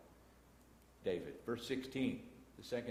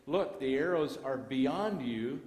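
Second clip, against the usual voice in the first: calling out the signal; 3 semitones higher, 6 dB louder, slower than usual. Retold or imitated. Signal call to hidden David.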